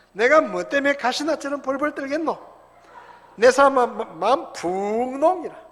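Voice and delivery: 경상도 사투리로 신나게 시편 낭독, 크게; 구수한 경상도 말씨로 흥을 돋워 읽기; Gyeongsang dialect reading. Shown as a demonstration. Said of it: "이 경상도 사투리로 시편 이십삼 편을 쓴 거예요". (경상도 사투리로 크고 신나게 읽는 시편)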